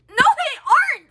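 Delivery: high, loud, drawn-out protest; exasperated outburst. Retold or imitated. Daughter arguing about the vegan claim, exasperated outburst. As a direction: burst out in indignant contradiction. Exasperated rebuttal in retold argument.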